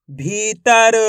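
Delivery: "भीतर" as one stretched word; teaching read of "भीतर", syllables linked; blended, drawn-out word. Shown as a demonstration. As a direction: hold the ee in "भीतर". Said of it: "आपस में मिला के पढ़ेंगे".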